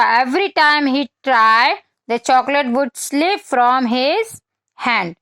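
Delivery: put-on slow, clear read-aloud for children; slow storybook reading; story reading. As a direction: read each word out slowly for little kids. Reads English storybook text to children.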